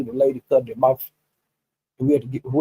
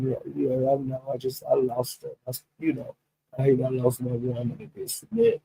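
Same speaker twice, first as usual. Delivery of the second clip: quoted S D; 11 dB quieter than usual. Retold or imitated. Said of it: "S D was saying".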